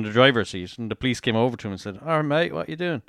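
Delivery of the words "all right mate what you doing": badly done Australian accent, lilting up; terrible Australian accent. Police officer to crashed driver, bad Australian accent. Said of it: "That's a terrible accent".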